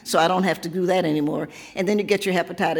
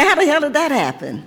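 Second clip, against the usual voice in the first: higher pitched laughing exclamation; amused exclaim, voice pitched up, laughing; laughing disbelief; 8 semitones higher, 4 dB louder than usual. Retold or imitated. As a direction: laugh through mock outrage at aging. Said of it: "you say".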